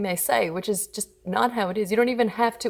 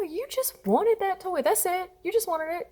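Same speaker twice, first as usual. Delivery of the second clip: validating parent; 10 semitones higher than usual. Retold or imitated. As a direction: soothe an upset kid, re-enacted. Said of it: "I just validated what they were feeling".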